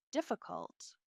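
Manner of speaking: hushed, delicately falling 'difficult'; pointed euphemism. A narrator's reading. Mother-in-law reporting a complaint, pointedly delicate. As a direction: let the word drop after a pause.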